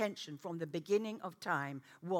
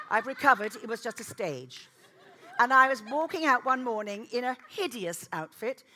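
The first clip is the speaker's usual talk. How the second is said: laughing; 3 semitones higher, 11 dB louder than usual. Real, not acted. Laughing at her own story.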